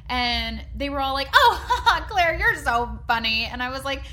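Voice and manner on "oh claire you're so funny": laughing through a higher "Oh", then slow; laughing mock group. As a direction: play the room laughing it off.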